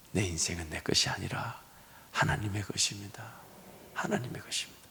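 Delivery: hushed whisper, barely voiced; soft preacher's whisper. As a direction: breathe it out like a secret. Whispered refrain.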